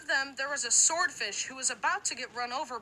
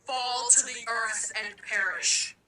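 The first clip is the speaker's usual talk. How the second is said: evil villain voice; 2 semitones lower than usual. Acted. Villain speech in a dream.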